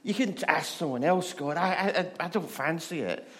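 whiny, put-upon refusal, lightly voiced; a grumbling, unwilling Noah, half-hearted and comic; reluctant Noah. Noah turning down God's boat job, reluctant and whiny. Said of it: "And him going".

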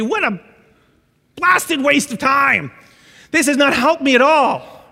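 hammed-up fury at the stewardess; mock angry outburst. Throwing parachute down in anger.

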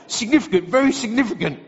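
mimicry of an excitable friend; Gasky. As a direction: imitate his pet phrase, insistently. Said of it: "That's just how he speaks".

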